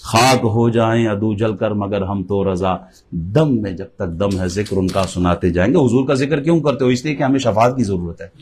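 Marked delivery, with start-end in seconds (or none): 0.0-5.8 low, measured recital of devotional couplets; verse recitation. Acted. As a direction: recite the couplets evenly, in a lower pitch. (دھیمے سُر میں نعتیہ شعر خوانی)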